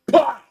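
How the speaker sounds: sudden punchy rifle-shot noise; explosive sound effect; imitated gunshot. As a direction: fire the word out like a shot. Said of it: "And he goes".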